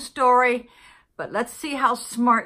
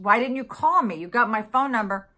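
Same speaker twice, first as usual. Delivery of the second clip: louder, higher mock confrontation; retold indignant challenge; 3 semitones higher, 4 dB louder than usual. Customer challenging the clerk over not being contacted, retold indignation. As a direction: press the point in a re-enacted argument. Acted argument with post office clerk.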